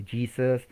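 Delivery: JESUS as "JEE-sus"; English pronunciation. Shown as a demonstration. Teacher listing three forms of the name, English pronunciation. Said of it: "se pronuncia diferente".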